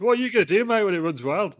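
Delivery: mock Hogan taunt in a Southern English accent; Southern Hulk Hogan accent. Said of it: "Southern Hulk Hogan".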